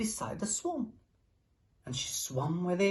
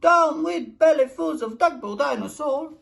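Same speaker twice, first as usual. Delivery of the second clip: hooting; 7 semitones higher, 8 dB louder than usual. A narrator's reading. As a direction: hoot it out earnestly. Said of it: "And he hooted".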